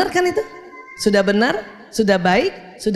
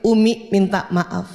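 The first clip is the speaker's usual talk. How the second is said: slow sincere apology; slower than usual. Shown as a demonstration. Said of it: "Kalimatnya itu".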